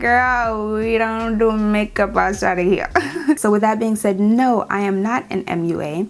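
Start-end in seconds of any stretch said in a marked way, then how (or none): 0.0-2.9 sassy retort. Retold or imitated. Retorting to pushy customers.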